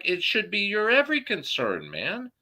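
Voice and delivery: high, insistent reply; indignant retort. Retold or imitated. Answering the mayor back, high and indignant. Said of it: "I was like".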